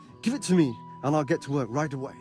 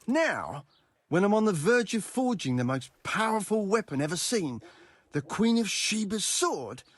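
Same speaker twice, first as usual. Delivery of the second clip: incredulous; 3 semitones higher than usual. Acted. Smith to customer interrupting his great forging work, incredulous. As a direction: protest in disbelief at being asked now.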